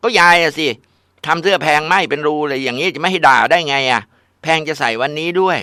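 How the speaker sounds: high, loud indignant complaint; angry blaming. Acted. Daughter angrily blames grandma to her mother, loud indignant.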